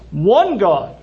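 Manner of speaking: "One God" with "one" lifted and stressed. Shown as a demonstration. Preacher repeating Paul's literal Greek, emphatic on "one". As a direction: punch the word "one" in "One God". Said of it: "He's making a point".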